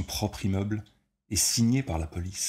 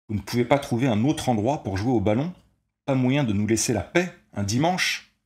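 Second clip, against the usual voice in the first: loud, higher pleading yell; shouted protest; 5 semitones higher, 5 dB louder than usual. A narrator's reading. Stanley shouting down at the players from his window, loud protest. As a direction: lean out and shout down at them.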